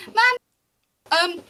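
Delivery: a lightly voiced watchman slipping her advice; quick friendly tip from the watchman; quick aside. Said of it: "quickly goes".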